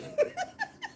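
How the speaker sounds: squealing laugh breaking through; can't hold back the laugh; high laugh. Real, not acted. Fearing an STD test, squealing laugh.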